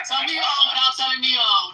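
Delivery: teasing shout. Pretend. Repeats meme phrase loudly.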